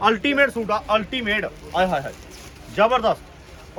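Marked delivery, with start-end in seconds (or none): 1.4-3.8 drawn-out gushing exclamation. Acted. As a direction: swoon over it, very slowly. Gushing over a suit design.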